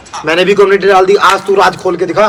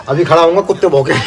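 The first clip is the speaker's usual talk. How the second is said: laughing; 2 semitones lower, faster than usual. Real, not acted. Mocking rival, laughing.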